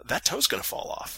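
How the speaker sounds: soft unvoiced whisper of alarm; whispered dread. Husband hiding his worry from his wife, whispered fear. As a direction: whisper it so she won't hear.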